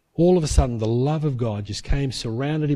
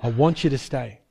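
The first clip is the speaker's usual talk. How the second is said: voice of the Spirit; 4 semitones lower than usual. Retold or imitated. Holy Spirit asking Paul to stay, low gentle voice. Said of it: "the Holy Spirit spoke to him".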